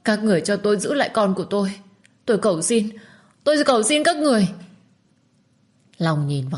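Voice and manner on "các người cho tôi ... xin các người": higher, rising into a tearful plea; young woman begging, climbing to a cry at the end; desperate pleading young mother. Acted. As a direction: beg as if on your knees for your child. Minh begs to keep her child.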